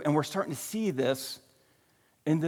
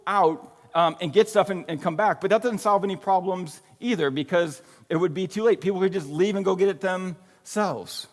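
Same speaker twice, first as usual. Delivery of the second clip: higher, louder eager pitch of a plan; excited disciples; 4 semitones higher, 4 dB louder than usual. Retold or imitated. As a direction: blurt out the idea excitedly. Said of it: "So they're saying".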